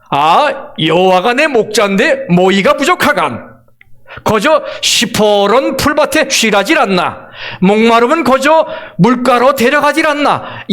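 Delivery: 가볍게 흉내 낸 평안도 사투리; 서울 사람이 어색하게 흉내 내는 이북 평안도 말투; Pyongan dialect. Shown as a demonstration. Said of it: "이북 평안도 버전입니다". (평안도 사투리로 살짝 흉내 내어)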